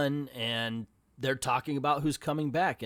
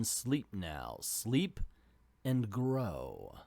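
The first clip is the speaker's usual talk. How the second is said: Swamp Thing voice. Acted. Reading Swamp Thing's waking thoughts.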